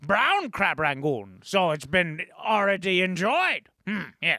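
put-on character voice, drawn out at first; Baron. Weighing in on Crab Rangoon, put-on Baron voice. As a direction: savor the words in an altered critic's voice. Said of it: "What did you think, Baron?".

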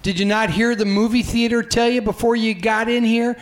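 demeaning Philly tough. Acted. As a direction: talk down to a moviegoer, drawing words out. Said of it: "that's a demeaning way of discussing".

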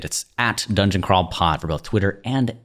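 ordinary talk

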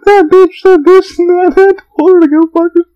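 camp it up like a coworker dishing dirt; gossiping coworker. Retold or imitated. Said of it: "And, like".

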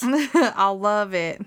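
laughing through the line. Real, not acted. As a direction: say it while cracking up.

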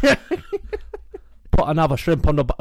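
put-on loud, high, slow botched Australian accent; badly faked Aussie, drifting towards Cockney; failed Aussie turned Cockney. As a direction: attempt Aussie and slip into Cockney. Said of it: "that's, that's Cockney".

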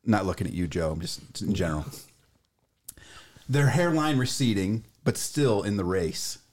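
slow, deliberate poem recital; poem reading. Acted. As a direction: read it out like a grand poem. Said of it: "gonna go ahead and read it".

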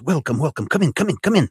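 booming sing song welcome. Acted. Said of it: "he opens the door and he goes".

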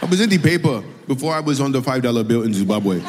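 teasing imitation of a Zimbabwean accent; put-on Zimbabwean accent, mock bragging. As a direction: parody her boasting in a Zimbabwean accent. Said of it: "I do that accent really well".

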